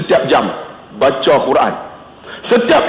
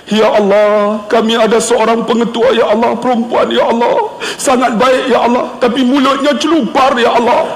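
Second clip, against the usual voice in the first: prayer recital; 2 semitones higher than usual. Retold or imitated. Leading a prayer about the woman principal, supplicating. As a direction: intone it like a public prayer with sly humour. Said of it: "saya baca doa".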